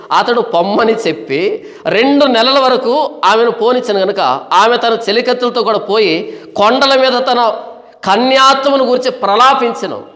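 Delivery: measured, sustained verse reading; scripture reading. Acted. Preacher reads the verse to the congregation, measured scripture reading. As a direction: read the verse out deliberately.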